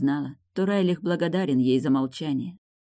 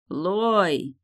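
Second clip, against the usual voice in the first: higher, drawn-out call; yelling a name; 4 semitones higher than usual. A narrator's reading. Husband yelling for his wife through an open door. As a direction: bawl the name, stretched, at moderate volume. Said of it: "послышался ор".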